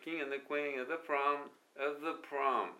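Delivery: of the blurred to sound like other; reduced of the. Shown as a demonstration. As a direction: swallow of the into a quick other. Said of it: "otherぐらいにしか聞こえない". (of theをotherのように弱く)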